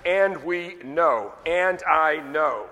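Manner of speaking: slow, stretched "And we know", "And I know"; emphatic. Shown as a demonstration. Preacher stressing the verse's certainty to the congregation, emphatic. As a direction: weigh each word of "And we know", "And I know". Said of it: "It's emphatic".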